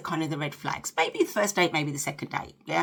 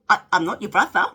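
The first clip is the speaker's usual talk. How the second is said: louder, miffed "I'm not your brother"; miffed retort; 8 dB louder, faster than usual. Retold or imitated. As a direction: push back, a bit put out. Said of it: "he said to me".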